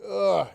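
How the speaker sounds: loud, high pained ugh; aching groan. Shown as a demonstration. Teacher showing the aching sound to the class. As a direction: groan like your arms are sore. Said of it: "if you're aching".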